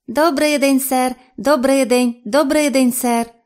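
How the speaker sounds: high, loud parroting creature; балакуча саламандра. A narrator's reading. Саламандра без упину повторює вітання. (високий гучний голос саламандри)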